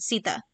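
"Sita" in two syllables, stress first, ending in a light uh; pronunciation demo. Shown as a demonstration. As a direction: say "Sita" as SEE-thuh, soft th in the middle. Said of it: "that's how you pronounce it".

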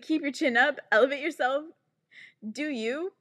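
mocking platitudes. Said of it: "This shit being like".

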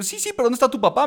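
high, quick puzzled pressing; confused insistence. Retold or imitated. Confused mentor still asking for the father, baffled. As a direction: push for the answer, baffled.

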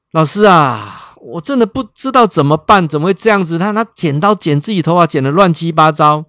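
distressed mother asking what to do; helpless plea. Real, not acted. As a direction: beg for help, at wits' end. Mother pleading helplessly to teacher.

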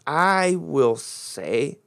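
words drawn out slowly; a slow first reading of I will say. Shown as a demonstration. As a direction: read it out slowly, word by word. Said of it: "this is very important in the English".

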